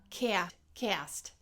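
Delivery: "cast" with two vowels smooshed together; Chicago diphthong A. Shown as a demonstration. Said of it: "smooshed together".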